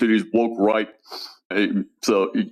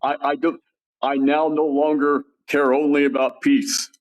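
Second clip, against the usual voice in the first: Trump quote voice; 6 semitones higher than usual. Retold or imitated. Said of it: "He, he said".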